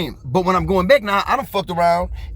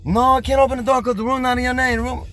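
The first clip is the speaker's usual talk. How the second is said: higher, flat refusal in a put-on clerk voice; motel clerk; 6 semitones higher than usual. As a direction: play the desk clerk saying no. Motel clerk refuses to open door.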